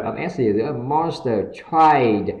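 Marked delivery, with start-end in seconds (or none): 1.5-2.3 TRIED drawn out, the T released with air; aspirated T. Shown as a demonstration. Teacher models tried for learners, slow and aspirated. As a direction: stretch "tried" slowly with a puffed T. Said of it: "âm thi bật hơi ra".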